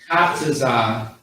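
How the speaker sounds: "Kataza" slowly, vowels held long; drawn out. Shown as a demonstration. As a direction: stretch out each long a in "Kataza". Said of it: "you gotta draw it out".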